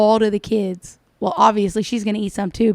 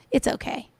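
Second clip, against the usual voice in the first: mock whisper; 3 semitones higher, 7 dB quieter than usual. Mocking reassurance.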